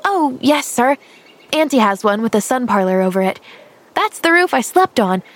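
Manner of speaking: put-on earnest little girl. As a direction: play a guileless girl answering every question. Girl replies eagerly.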